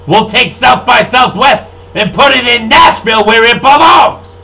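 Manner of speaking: rising into a furious yell at the end; angry shout. Real, not acted. Ranting at Austin politicians, building to a shout. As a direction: bellow the last word at them.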